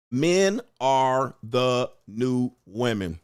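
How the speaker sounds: drawn-out "Men are the new women" said slowly, words stretched. Shown as a demonstration.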